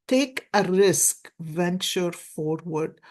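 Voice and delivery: slow card reading. Shown as a demonstration. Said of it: "I'll read it to you".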